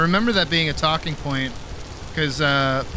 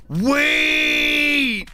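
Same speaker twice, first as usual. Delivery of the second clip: sudden wait; 11 semitones higher, 5 dB louder than usual. Real, not acted. Sudden realization mid-sentence.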